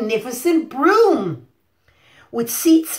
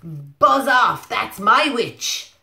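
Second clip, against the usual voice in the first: monster voice; much slower than usual. Acted. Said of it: "what did the big monster say".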